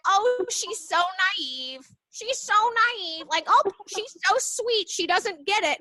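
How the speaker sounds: high, slow patronizing coo; condescending mock. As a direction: mimic coworkers talking down sweetly. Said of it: "And people would be like".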